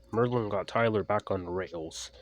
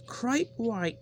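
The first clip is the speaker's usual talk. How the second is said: coach voice. A narrator's reading. Coach agrees.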